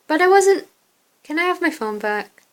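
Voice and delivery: protesting innocence to a friend; indignant protest. Acted. Caught with phone, protests to friend.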